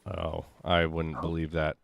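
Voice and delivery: ordinary talk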